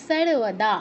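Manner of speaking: "সর্বদা" as sarvada with s; dental sibilant word. Shown as a demonstration. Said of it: "এরকম".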